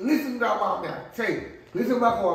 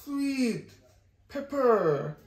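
word by word; 3 dB quieter, much slower than usual. Shown as a demonstration. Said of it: "Say, say the word".

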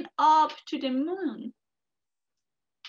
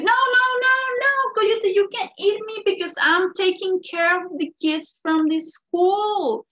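eager rabbit; 3 semitones higher, 5 dB louder than usual. Acted. Rabbit tricking the coyote.

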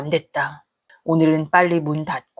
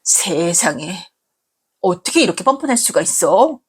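stunned whisper. Acted. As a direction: whisper it in shock. Daughter stunned by mother's gall.

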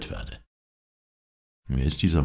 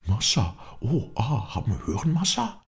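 higher-pitched, agitated servant's interjection; excited Bob figure; 9 semitones higher than usual. A narrator's reading. Bob interrupts the others' exchange, excited.

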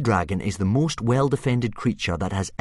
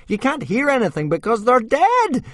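much higher, louder gleeful character voice; joyful; 5 dB louder than usual. Acted. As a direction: crow it out, giddy with relief. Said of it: "said Thuggery joyfully".

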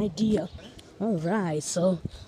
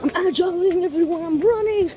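excited announcement; 7 semitones higher, 4 dB louder than usual. Real, not acted. Announcing sudden run to viewers.

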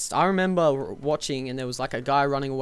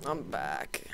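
whispering; 8 semitones lower, 10 dB quieter than usual. Real, not acted. Returning after respawn.

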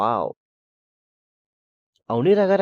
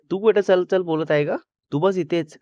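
higher, louder irritated retort; jealous girl shoots down her boyfriend, irritated and louder; angry retort; 4 semitones higher, 4 dB louder than usual. Acted. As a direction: snap back at him, annoyed and raised. Avni snaps at Aayush in quarrel.

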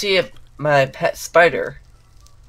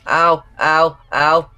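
pain yelps; 2 semitones higher, 5 dB louder, much slower than usual. Real, not acted. Hit by zombie.

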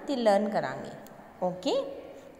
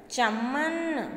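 slow dictation; 3 semitones higher, 3 dB louder, much slower than usual. Shown as a demonstration. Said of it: "teacher dictating a new word".

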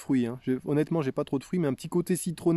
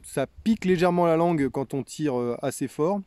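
talking around pipe stem; pipe in mouth. Real, not acted. Seen 0: Pipe stem held at lips throughout speech; not in mouth at -1.0.

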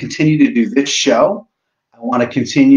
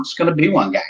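Boston voice; 4 semitones higher, faster than usual. Pretend. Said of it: "I went into that voice of the Boston voice".

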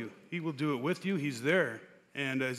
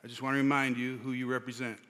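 mild, softer quoted reminder; nicely voiced, understated gentle correction; gently retold; 4 dB quieter than usual. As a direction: pass on a kind reminder, gently and unhurried. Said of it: "very nicely, very gently said".

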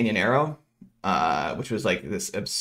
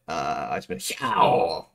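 low-energy hya; 6 semitones lower, slower than usual. Shown as a demonstration. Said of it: "the hya was a little, it was low energy".

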